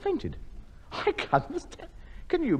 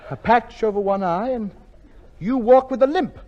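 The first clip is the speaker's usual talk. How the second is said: rising higher and louder as the penny drops; dawning alarm; 8 semitones higher, 7 dB louder than usual. Acted. Tony realizing his guest is the escaped convict, rising alarm. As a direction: panic building word by word.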